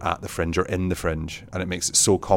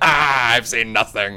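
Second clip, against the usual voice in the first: mock lament; 4 semitones higher, 4 dB louder, slower than usual. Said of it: "you're going".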